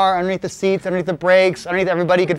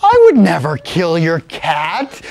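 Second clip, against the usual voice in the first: mock-offended protest; 2 semitones lower, 4 dB louder, slower than usual. The speaker protests his innocence.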